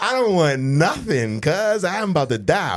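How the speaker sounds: hammed-up wail of dread; mock panic. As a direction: plead comically, sure you're doomed. Retold panic before punishment.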